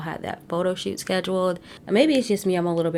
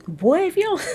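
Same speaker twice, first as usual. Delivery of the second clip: high shout; 13 semitones higher, 6 dB louder than usual. Real, not acted. Outburst at husband on show.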